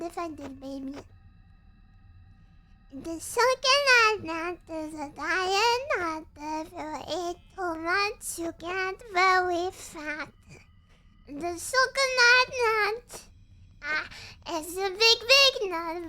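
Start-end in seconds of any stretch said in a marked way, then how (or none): 2.9-10.3 과장된 캐릭터 목소리로 크게; 만화 캐릭터처럼 힘주어 읽기; character voice. Pretend. Performing nut lines in voices. 11.3-16.0 높고 크게 늘여 말하는 캐릭터 목소리; 과장해서 천천히 외치듯; character voice. Pretend. Performing nut lines in voices.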